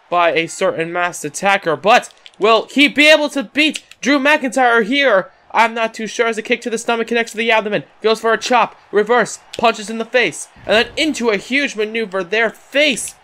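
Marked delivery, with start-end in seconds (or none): 1.8-13.2 quick, lifted wrestling commentary; live play-by-play. Acted. Commentator calling the champion's match, in lively play-by-play. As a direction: call the moves as they land.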